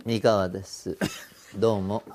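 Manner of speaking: lightly voiced veteran singer's greeting; 三河 impression. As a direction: greet listeners in a star's unhurried persona. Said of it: "本当に似てますね。". (大物歌手のものまね風の挨拶)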